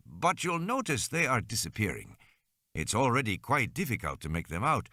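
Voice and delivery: measured, explanatory doctor character; a hint of a careful clinician; lightly voiced doctor. Doctor explaining bite samples to parents, lightly voiced doctor.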